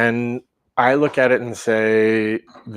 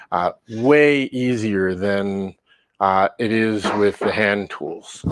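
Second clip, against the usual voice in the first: muffled; slower than usual. Real, not acted. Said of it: "muffled everything with my mic".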